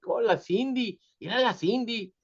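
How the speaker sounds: mock doting relative; imitating excited relatives. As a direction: coo it like delighted Mexican relatives. Imitating relatives greeting Cindy.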